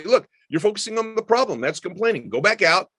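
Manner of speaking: put-on firm but kind coaching a child; lightly voiced firm parent; firm parent demo. Shown as a demonstration. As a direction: directive parent, clear and steady. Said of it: "I would say".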